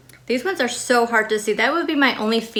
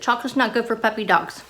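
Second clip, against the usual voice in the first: usual speaking voice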